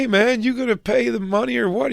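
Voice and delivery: high-pitched demanding mock movie line; movie character imitation. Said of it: "And then he goes".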